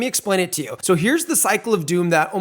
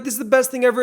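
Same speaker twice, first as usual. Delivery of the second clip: imitating a giddy trader, voice up high; mock excited; 6 semitones higher, faster than usual. Host imitating a trader on a win streak, excited and higher. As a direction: hype it up like a winning streak. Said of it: "you get so excited and you're like".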